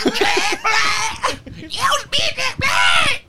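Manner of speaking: very high, slow, shouted parody of Jack Black; a deliberately bad Jack Black squeal; mock Jack Black impression. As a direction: screech it like a wailing cartoon. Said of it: "That's not how he sounds at all".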